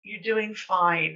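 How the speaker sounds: slow, gentle reassuring; gentle reassurance. Retold or imitated. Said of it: "I was very gentle with her".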